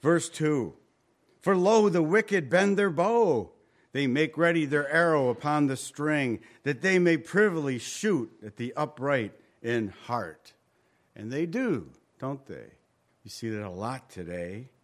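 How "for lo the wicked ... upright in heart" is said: solemn Bible recitation; scripture reading. Acted. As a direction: read it like holy writ. Reads scripture aloud.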